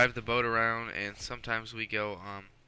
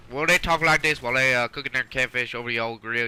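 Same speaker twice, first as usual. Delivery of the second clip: put-on Southern accent; 8 dB louder than usual. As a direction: lay on a thick Southern twang. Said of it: "I was feeling my southern accent coming alive".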